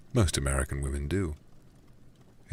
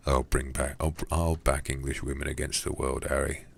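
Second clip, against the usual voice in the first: put-on Cockney accent. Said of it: "a Cockney voice for this guy".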